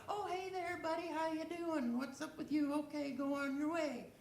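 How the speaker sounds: high, easy friendly greeting to a passing cat; breezy hello, buddy, off you go; casual hi to a cat. Retold or imitated. Greeting a cat out alone, high and easygoing.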